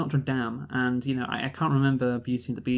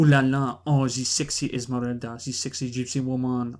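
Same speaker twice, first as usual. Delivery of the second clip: hammed-up French accent, "Ooh la la" much louder; mock French accent; 3 dB louder than usual. Mocking the film's missing French voices, in a hammed-up French accent. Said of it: "I gave you one there".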